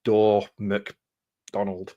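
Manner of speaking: "Dorr McDonald" drawled out very slowly; a lazy, drawn-out name; very slow mock name. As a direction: stretch every syllable of the name.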